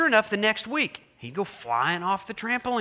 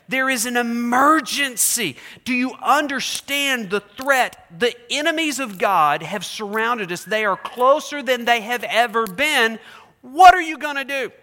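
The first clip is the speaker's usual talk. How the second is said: loud, higher, frantic report to the king; urgent messengers; 5 semitones higher, 6 dB louder than usual. Acted. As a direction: messengers warn Jehoshaphat the enemy is here, loud and frantic. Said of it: "These men come and report".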